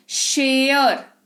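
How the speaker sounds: शेयर drawn out as "shay-yor"; gliding vowel sound. Shown as a demonstration. Teacher giving an example, stretched gliding vowel. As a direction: slowly stretch the "ay-o" glide in शेयर. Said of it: "ए की जगह पर ए इस्तेमाल".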